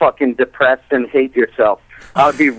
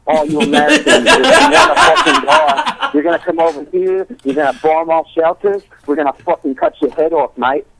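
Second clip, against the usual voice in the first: put-on London accent; 3 semitones higher than usual. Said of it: "that fucking guy with the nice London accent".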